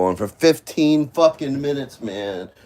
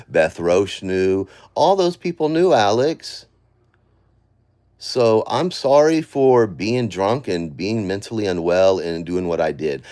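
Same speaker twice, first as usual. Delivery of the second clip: heated rant; 3 semitones higher, 5 dB louder than usual. Real, not acted. Emotional rant addressed to Alex.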